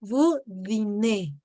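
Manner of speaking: slow, spaced "Vous dînez" ending in "ay"; final E pronounced. Shown as a demonstration. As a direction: say "dînez" as "dee-nay", Z silent. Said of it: "ahí sí dices la E".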